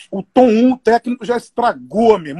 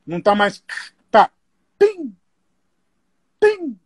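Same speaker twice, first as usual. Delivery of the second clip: mocking the sound tech. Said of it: "Aí o técnico fala".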